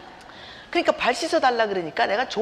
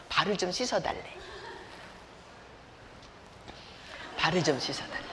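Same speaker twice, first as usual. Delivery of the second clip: retold request; 5 semitones lower, 10 dB quieter than usual. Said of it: "하는 말".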